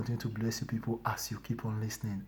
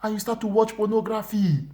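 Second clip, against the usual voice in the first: divine voice; 9 semitones higher, 4 dB louder than usual. Retold or imitated. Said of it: "He said".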